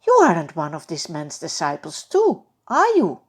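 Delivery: loud accusing question, pitch leaping on the end; a servant girl calling Peter out; sharp challenging girl's voice. Acted. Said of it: "The servant girl asks Peter".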